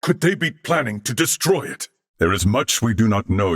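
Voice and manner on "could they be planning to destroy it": higher, worried question; rising alarm. Acted. Fearing the plant's destruction.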